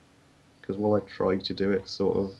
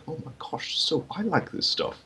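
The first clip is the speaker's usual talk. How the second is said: mock excited kid; 9 semitones higher than usual. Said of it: "I'm like".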